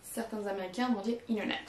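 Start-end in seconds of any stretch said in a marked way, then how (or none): 1.3-1.7 internet said like inner-net; American inner-net; dropped T. Shown as a demonstration. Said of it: "au lieu de dire internet".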